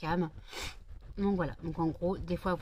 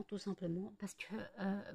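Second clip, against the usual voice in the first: a soft night whisper; 8 dB quieter than usual. Real, not acted. Explaining the card reader at night, whispering. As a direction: drop to a breath mid-sentence.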